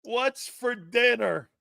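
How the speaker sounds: drawn-out imitation of a demanding host; imitating radio host. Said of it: "So he's like this".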